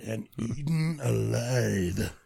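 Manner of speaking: low, slow, soft doom; mock-ominous ending. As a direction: draw out the grisly ending. Dramatic end of plot summary.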